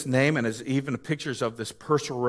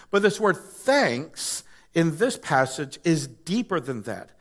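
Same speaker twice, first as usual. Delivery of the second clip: ordinary talk, nothing marked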